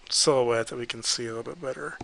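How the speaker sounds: talking through a yawn. Real, not acted. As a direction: stretch the words with a yawn.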